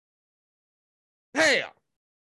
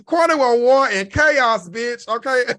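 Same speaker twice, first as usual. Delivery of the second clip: retold comeback; 4 dB louder, slower than usual. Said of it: "I say".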